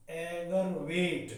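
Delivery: एगरवेट said slowly as eg-ar-vet; correct pronunciation. Shown as a demonstration. Teacher models for students: एगरवेट, said slowly as eg-ar-vet. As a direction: say एगरवेट with three clear parts, eg-ar-vet. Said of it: "इसका pronunciation है एगरवेट".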